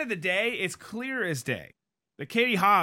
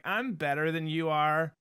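vocal fry; 2 semitones lower than usual. Retold or imitated. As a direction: drag the words in a fry. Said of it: "vocal fry is like when you talk kinda like this".

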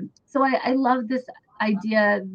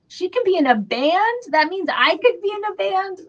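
put-on high, excited little-kid realization; thrilled discovery; 10 semitones higher, 3 dB louder than usual. Young fan seeing Tia Carrere in Wayne's World, thrilled and high. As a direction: gasp it out like a dream just opened up. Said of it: "And I was like".

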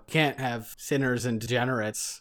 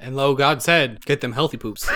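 mock scripture.

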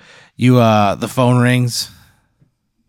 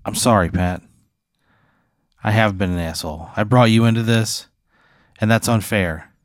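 acted remorseful apology. Driver apologising to Pat for dragging him into this, subdued.

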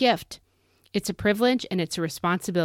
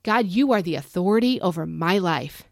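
firm, emphatic prayer; out loud declaration; 3 dB louder than usual. Shown as a demonstration. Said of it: "out loud".

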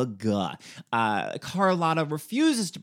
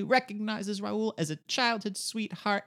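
usual speaking voice

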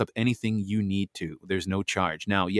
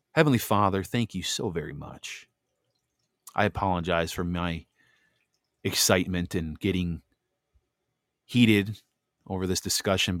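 prayer; 2 semitones lower than usual. Acted. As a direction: humbly pray to God after the heated talk. Leads a prayer.

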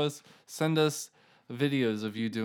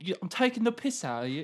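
put-on high, quick British accent; 8 semitones higher, faster than usual. Podcaster showing off how the British slang feels, British accent. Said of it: "I like the British one".

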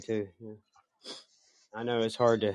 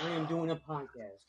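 mock dictation; 5 semitones higher, 12 dB quieter than usual. Shown as a demonstration.

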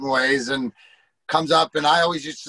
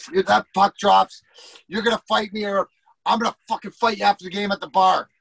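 raised, insistent mock threat; retold pissed-off challenge; 4 semitones higher than usual. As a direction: act out a fed-up fighter's challenge. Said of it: "Chase is all pissed off".

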